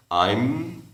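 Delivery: I'm with the m held at the end; closed final m. Shown as a demonstration. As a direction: finish I'm with lips together. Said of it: "cierra bien la boca a la final". (I'm, terminando en M)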